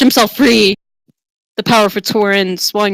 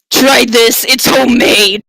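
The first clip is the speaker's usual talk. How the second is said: flirty offer; 3 semitones higher, 4 dB louder, slower than usual. Acted. Tonda offers cheese.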